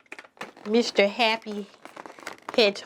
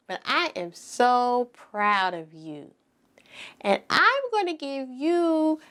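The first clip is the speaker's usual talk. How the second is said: bright encouraging teacher voice; kindergarten teacher voice; slower than usual. Acted. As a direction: praise the little ones warmly. Praising children in class.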